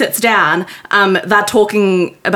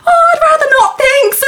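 polite refusal; 4 dB louder than usual. Retold or imitated. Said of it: "and she's like".

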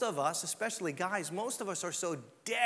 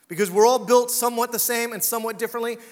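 louder, pressing the point; loud preaching; 8 dB louder, faster than usual. Real, not acted. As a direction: drive the point home loudly.

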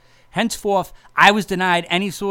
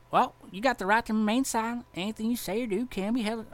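imitating cop; 7 semitones higher, 4 dB quieter than usual. Cop reading Miranda rights.

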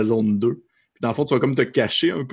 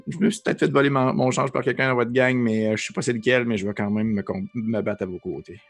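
tiny squeaky critter. Acted. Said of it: "Il fait".

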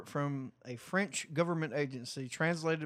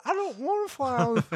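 mock French reluctance; 8 semitones higher, 4 dB louder than usual. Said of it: "the son of a bitch is like".

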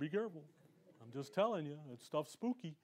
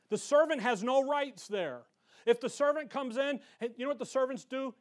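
worked up; 3 semitones higher than usual. Real, not acted. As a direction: preach it with rising heat and insistence. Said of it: "I get a little worked up".

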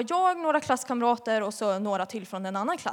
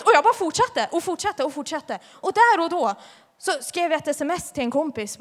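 usual speaking voice

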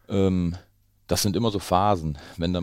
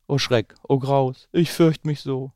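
higher, louder hammed-up terror; mock fright; 8 semitones higher, 8 dB louder, slower than usual. Storyteller acting out fright at the Gruffalo, hammed-up fear. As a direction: play at being scared for the kids.

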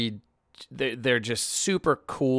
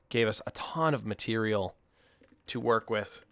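talking between sips of coffee; words around a sip of coffee; while sipping a drink; 4 dB quieter than usual. Real, not acted. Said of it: "Sorry, I'm drinking Starbucks".

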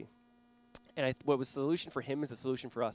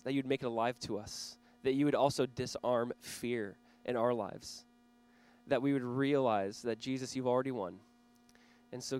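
earnest prayer. Real, not acted. Pastor praying before the sermon, earnest prayer voice. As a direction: pray it sincerely over the room.

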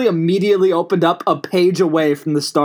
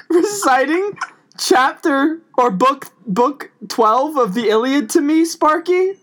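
talking to his dog; 3 semitones higher than usual. Acted. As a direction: gush to the dog like a genius. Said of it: "I can only talk to you, my dog".

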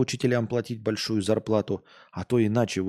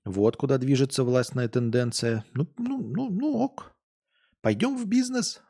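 brushing it off, pitched up; teachers' voice; 3 semitones higher, slower than usual. Retold or imitated. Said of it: "они такие сразу". (насмешливо, высоким голосом)

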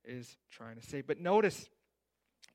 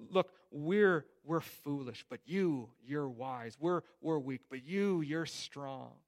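rude and direct; 5 dB louder, slower than usual. Retold or imitated. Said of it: "he's being pretty rude here".

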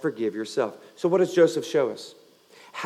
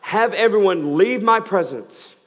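retold cry out; 5 semitones higher, 4 dB louder than usual. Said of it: "He cried out".

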